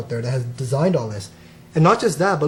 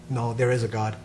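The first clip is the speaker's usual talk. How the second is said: lower, softer, composed answer; lightly acted calm meditator's reply; 4 semitones lower, 6 dB quieter than usual. Meditating man calmly answers the challenger.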